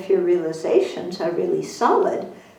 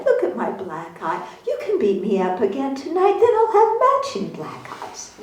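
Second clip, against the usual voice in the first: mock doting wife. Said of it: "if she goes".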